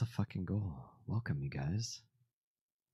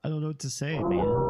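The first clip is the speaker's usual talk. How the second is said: overwhelmed yell; 7 semitones higher, 4 dB louder than usual. Real, not acted. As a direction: voice climbs to a shout. Overwhelmed by gifted subs.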